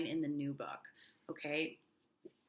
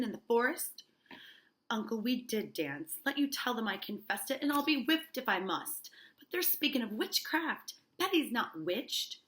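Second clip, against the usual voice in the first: dramatic play reading; 3 semitones higher, 3 dB louder than usual. Acted. Reads both play parts.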